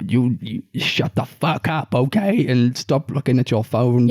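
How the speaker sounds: a light take on a stern cinema ad voice; mock-stern, slow warning to the audience; lightly voiced ad telling viewers to shut up; imitating John Boyega advert. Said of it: "almost quoting it word for word".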